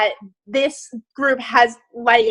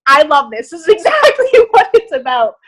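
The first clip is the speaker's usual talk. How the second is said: excited; 2 semitones higher, 4 dB louder than usual. Real, not acted. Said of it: "can you hear the excitement in my voice".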